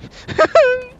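very high nervous giggle; high-pitched laugh. Real, not acted. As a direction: squeal with laughter. Reacts to horror game.

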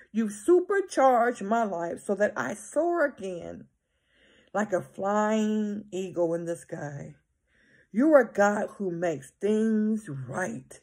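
slow, solemn reading of a psalm; scripture reading. Acted. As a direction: read it like a prayer from the pulpit.

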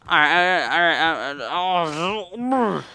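loud, rising chant of all right; tense pep-up. Real, not acted. Player gearing up for a hard jump, loud tense chanting. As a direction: brace himself, building nerve. Psyching himself up.

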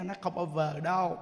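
ordinary talk, nothing marked

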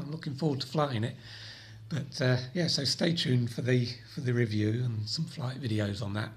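croaky from a cold; hoarse, head-cold voice. Real, not acted. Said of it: "please excuse my croaky voice".

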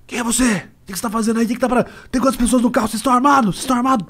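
high, fast police-style questioning; cop interrogation. Retold or imitated. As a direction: bark questions like a suspicious cop. (interrogatório de policial desconfiado)

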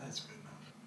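whispered, shutting the question down; hushed cutoff. Acted. Father cuts off his son's question, hushed warning. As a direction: breathe it as a final warning. Ending the topic.

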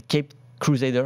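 Cape Crusader said in a hammed-up English accent; mock English accent. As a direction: show off a jokey English accent on the title. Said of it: "Avec mon magnifique accent anglais". (accent anglais exagéré pour rire)

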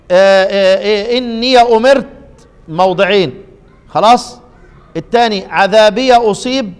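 the ten phrases listed with the ya of إني opened each time; quick recitation run. Shown as a demonstration. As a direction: rattle them off in recitation voice. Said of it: "زي ما أنا قرأت كده". (سرد سريع بفتح ياء الإضافة)

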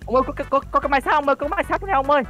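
high, excited calls to a friend; calling a friend over in a game. Real, not acted. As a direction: shout for his buddy to come see.

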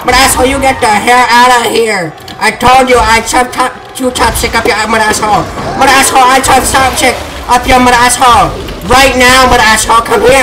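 ranting in a mock Chinese accent; Jackie Chan accent. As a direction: scold the monsters in a hammed-up Chinese accent. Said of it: "I always slip into an accent".

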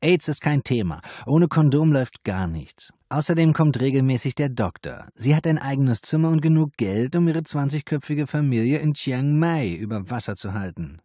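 high, loud madam voice defending herself; madam defending her brothel; self-justifying madam. A narrator's reading. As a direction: argue her case, high and pushy.

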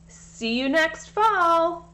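mocking taunt. Bully taunting the tripped ants.

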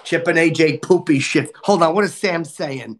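put-on whiny, crude man-child rant; comic persona griping at the stream; put-on character voice. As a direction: complain at the chat like a cranky brat.

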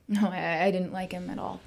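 tense, held-in dislike; strained, halting denial. Acted. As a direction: admit it with tension in the voice. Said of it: "I hear tension in your tone of voice".

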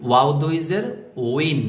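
উইন said with rounded lips after a rising ওয়াও দুই জের; careful model of উইন with a w glide; demonstrated pronunciation. Shown as a demonstration. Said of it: "দেখুন আমি কিভাবে উচ্চারণ করছি".

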